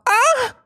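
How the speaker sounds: loud, high "ah"; high-note test yell. Shown as a demonstration. Streamer testing the microphone's treble, piercing yell. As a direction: blast a high shout into the mic. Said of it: "funzionano gli acuti?".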